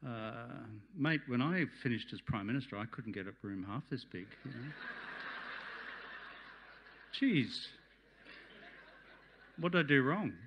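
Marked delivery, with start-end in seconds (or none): 4.7-10.3 laughing. Real, not acted. Former Prime Minister joking to the crowd, laughing. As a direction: laugh it out, amused at yourself. Self-mocking joke at own expense.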